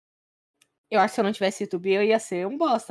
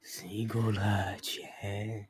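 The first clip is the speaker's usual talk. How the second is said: much lower, slow put-on deep voice; deep joke voice; 9 dB quieter, much slower than usual. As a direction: drop way down and drag it. Joking voice addressing Golart.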